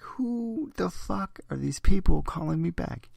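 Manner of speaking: high, drawn-out mock outrage at strangers. Recalling baffled callers, a mock outraged high yell. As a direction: pitch it way up and slow, baffled and angry. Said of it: "half the time I was like".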